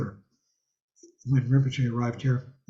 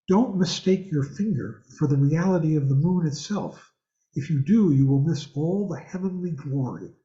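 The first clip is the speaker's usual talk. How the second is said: a hint of a thick Chinese accent on Bruce Lee's teacher line; understated Chinese accent, wise master's tone; lightly imitated thick Chinese accent; 2 semitones higher than usual. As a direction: quote the kung fu master in a mild Chinese accent. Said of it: "he says it in a thick Chinese accent".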